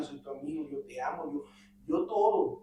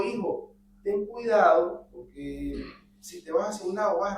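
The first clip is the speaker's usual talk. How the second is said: a slow, firm "ten cuidado", pitched up and louder; stern fatherly warning; 3 semitones higher, 4 dB louder than usual. Pretend. Padre advirtiendo a su hijo en bicicleta, firme y lento. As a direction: warn him like a father catching his son's attention. Father warns son on bicycle.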